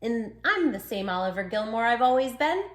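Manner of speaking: gentle storybook reading as the pup; lightly voiced pup narrating; reading to children. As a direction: read it like a bedtime story. Reads dog's story to children.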